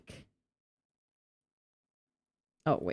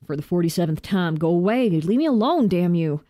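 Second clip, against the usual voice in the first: put-on southern accent; 3 dB louder than usual. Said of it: "I also gave you a southern accent".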